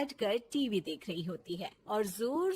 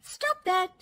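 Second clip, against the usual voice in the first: defiant retort; 7 semitones higher, 8 dB louder than usual. Acted. Bahu defiant comeback.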